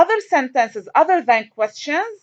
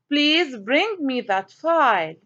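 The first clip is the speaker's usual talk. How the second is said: polite request; slower than usual. Shown as a demonstration. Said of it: "I have a polite request".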